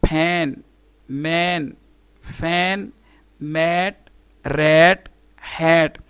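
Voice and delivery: फैन, मैन, मैट each said alone with the A of "cat"; teacher's word list, short A in रैट and हैट, paused between words; short A demo. Shown as a demonstration. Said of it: "vowel ए की short sound".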